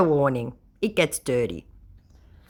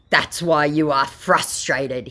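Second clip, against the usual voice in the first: mock scammer; 3 dB louder, slower than usual. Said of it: "he tries".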